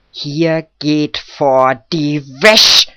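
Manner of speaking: slow, loud, emphatic rebuke; deliberate warning rising to a loud finish; stern scolding. A narrator's reading. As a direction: lay down the law word by word. Old Guschke scolds, eyeing the woodcutter.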